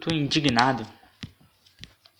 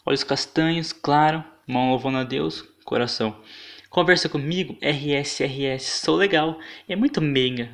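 voz afetada. Retold or imitated.

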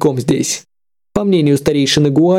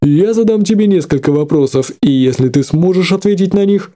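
a cold, hard elder's voice; icy voice. Acted. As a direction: say it coldly, a flat threat. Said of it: "произнёс ледяным голосом".

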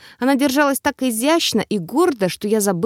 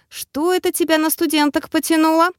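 snorting scornfully; 6 semitones higher than usual. A narrator's reading. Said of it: "фыркнула бабушка".

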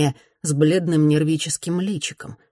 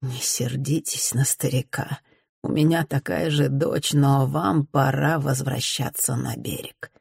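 put-on firm yet gentle, softer old captain; old sailor; 2 semitones lower, 4 dB quieter than usual. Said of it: "С твёрдостью в голосе и вместе ласково".

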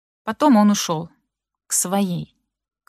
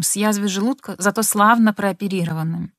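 ordinary delivery

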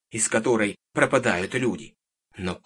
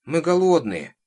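plaintive whine; 9 semitones higher, 7 dB louder than usual. A narrator's reading. Girl begging the witch for food, plaintive. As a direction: whine pitifully like a little girl. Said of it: "жалобно протянула девочка".

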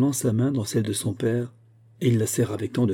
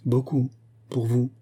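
sad; 2 semitones higher than usual. A narrator's reading. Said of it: "avec une expression de tristesse".

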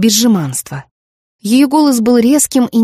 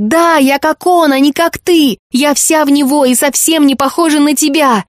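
yelling; 5 semitones higher than usual. Acted. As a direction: hurl it at her mother. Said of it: "завопила Фейт". (дочь кричит матери, вызывающе)

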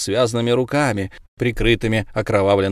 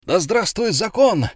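mild cheer; 10 semitones higher than usual. A narrator's reading. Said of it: "закричала толпа".

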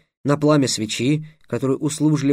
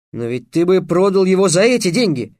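raised, mildly outraged objection; indignant protest; 5 semitones higher, 4 dB louder than usual. A narrator's reading. Trix haggling with the slave trader, indignant. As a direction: protest the unfairness. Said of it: "возмутился Трикс".

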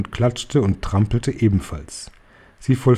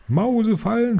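much higher, drawn questioning moan; stöhnende Hexen; 11 semitones higher than usual. A narrator's reading. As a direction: moan it high, as astonished witches. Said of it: "stöhnten die Hexen". (hohes, fragendes Stöhnen)

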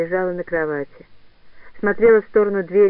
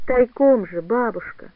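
pitiful plea; 3 semitones higher, slower than usual. Acted. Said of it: "попросила она жалко и униженно".

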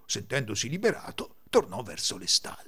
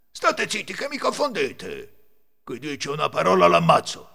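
irritated threat; 6 semitones higher, 6 dB louder than usual. A narrator's reading. Thief to companions who confuse his count, irritated threat. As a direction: warn them angrily to keep silent.

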